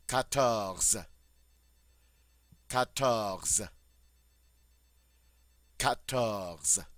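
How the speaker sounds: quatorze in three even syllables, throaty R; French quatorze. Shown as a demonstration. Teacher modeling quatorze for students, clear French. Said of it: "on dit".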